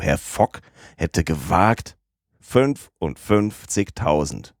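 slow, drawn-out astonished repeat of fünfundfünfzigtausend; slowly stunned repetition of the figure; stunned disbelief. Acted. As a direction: spell out the sum as if he can't believe it. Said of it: "rief Passepartout".

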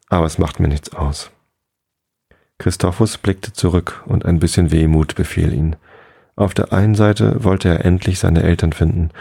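calm, even storytelling for sleep; bedtime story narration. A narrator's reading. Podcast host reads a bedtime fairy tale, calm narration. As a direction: read it gently to drift off.

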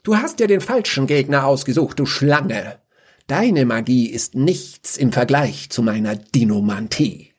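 heroic challenge. Acted.

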